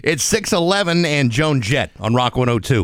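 low, smooth radio DJ read; back-announce like a rock DJ; DJ announcer. Acted.

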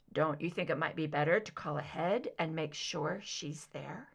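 lightly voiced son, cautious suggestion.

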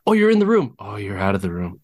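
eager puppy gushing, high and bright; excited dog. Pretend. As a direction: gush like a dog thrilled you're back. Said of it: "I feel like they're so".

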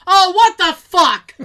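loud, slow, laughing grumpy dad; loud mock-outraged father; imitating dad. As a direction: ham up the cranky old dad. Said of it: "dad's reaction, laughing".

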